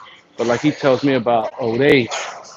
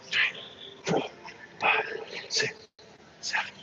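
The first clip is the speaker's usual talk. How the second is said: softer, breathy rep count; breathless counting; 5 semitones higher, 14 dB quieter than usual. Real, not acted. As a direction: count reps under the breath. Counting reps quietly.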